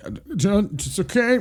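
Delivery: high, halting choked-up voice; retold tearful stammer, pitched high; emotional dad, imitated. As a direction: imitate a father struggling through tears. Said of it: "he's emotional and gets".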